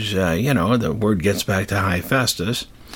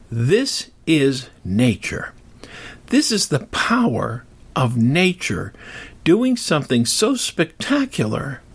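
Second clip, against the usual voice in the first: slow awed wonder; 3 semitones higher than usual. Shown as a demonstration. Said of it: "think to yourself".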